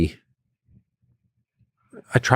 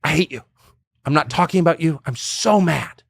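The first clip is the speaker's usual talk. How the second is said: retold angry rant; 6 semitones higher than usual. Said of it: "I was like".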